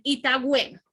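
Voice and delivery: "ita" said for "está"; vulgar ita bueno. Shown as a demonstration. Teacher mimics slangy speech for the class, clipped ita. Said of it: "Y para decir".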